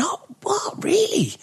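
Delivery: retold shock as Shane learns the news; surprised. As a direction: play the shocked reaction in a hushed gasp.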